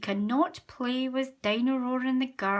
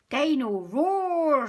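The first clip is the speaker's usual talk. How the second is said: George calling; 6 semitones higher, 7 dB louder, much slower than usual. A narrator's reading. George calls his toy.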